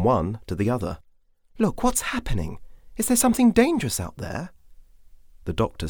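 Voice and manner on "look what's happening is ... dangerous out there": put-on much higher, worried girl's voice; a high, uneasy question; anxious young Victoria.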